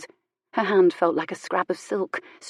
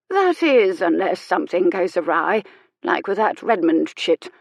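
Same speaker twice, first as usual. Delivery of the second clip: dish the gossip with relish; gossiping old lady. Acted. Old lady gossips to the reverend about Violet, tart.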